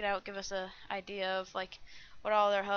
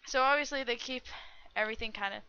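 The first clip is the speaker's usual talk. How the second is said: hiccups; faster than usual. Real, not acted. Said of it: "I have the hiccups or something".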